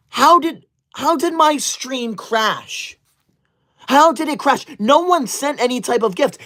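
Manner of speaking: baffled that the stream just died; shocked disbelief. Acted. Stream suddenly crashed, shocked.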